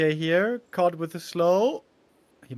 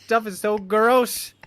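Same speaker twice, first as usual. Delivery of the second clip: mock outrage; 5 semitones higher, 6 dB louder, much slower than usual.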